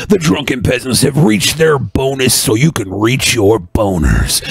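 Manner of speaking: booming ring announcer hype; wrestling promo. Pretend. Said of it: "Cut a promo".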